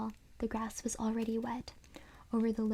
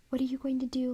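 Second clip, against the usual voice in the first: a touch of fear, pitched up; frightened girl asking, a little louder; shrill frightened voice; 3 semitones higher, 4 dB louder, faster than usual. Acted. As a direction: ask it scared of the dummy. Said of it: "in a shrill, frightened voice".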